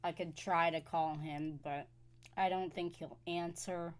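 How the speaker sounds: crunching snacks while talking; chewing while talking. Real, not acted. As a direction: talk through a mouthful of chips. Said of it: "Sorry if you hear me crunching on something".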